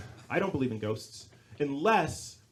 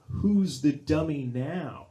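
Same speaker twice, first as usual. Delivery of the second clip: ghost's punchline; much slower than usual. Retold or imitated. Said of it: "gets him on this line".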